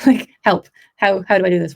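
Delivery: playfully exaggerated appeal to a coach; mock plea for help. Retells asking vocal coach for help.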